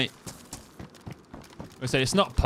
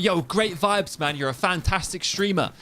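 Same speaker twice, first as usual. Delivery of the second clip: higher-pitched gushing bot flattery; lightly put-on overenthusiastic viewer; mock bot; 6 semitones higher than usual. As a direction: imitate a fake-friendly chat bot. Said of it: "the bots will come in and be like".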